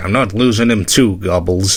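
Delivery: ordinary delivery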